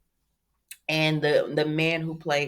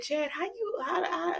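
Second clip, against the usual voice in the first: mock wail; 12 semitones higher, 7 dB quieter than usual. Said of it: "And I said".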